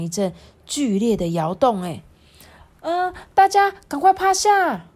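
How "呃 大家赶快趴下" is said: high-pitched teacher's shout; loud urgent warning. Acted. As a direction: shout an urgent order to the class. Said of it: "老师大声地说". (老师大声急喊)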